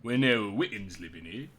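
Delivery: lightly voiced old-timer telling town history; a hint of a village old-timer; old townsperson. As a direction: recount local lore as a long-time resident. Old townsperson shares secret route.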